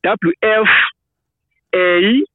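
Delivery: letters W F A said high, one by one; spelling it out. Shown as a demonstration. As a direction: call out each letter. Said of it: "Can you spell it".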